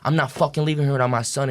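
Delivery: mildly worked-up, adamant quote; dad freaking out. Retold or imitated. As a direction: act out a dad's heated refusal. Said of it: "he was freaking out".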